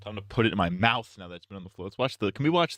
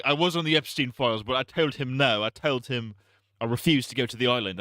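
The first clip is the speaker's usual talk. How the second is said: lightly put-on accent, unlike the original; Elon in wrong accent. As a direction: attempt a poor impression with an accent. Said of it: "why I'm giving him that accent".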